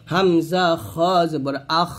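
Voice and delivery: "খ" said thick and full, "আখ" ending in throaty friction with breath; thick Arabic kha in "খ" and "আখ"; heavy খ. Shown as a demonstration. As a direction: make the "খ" heavy and let air out on "আখ". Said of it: "খটা মোটা করতে হবে অবশ্যই".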